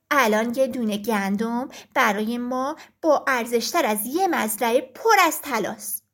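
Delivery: a wise hen setting him straight; stern hen. Acted. Hen lectures rooster.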